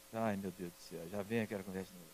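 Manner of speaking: very low, hushed mock dread; weary inner groan, played for comedy; dismayed aside. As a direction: grumble it privately, far below your speaking voice. Father's retold inner dread.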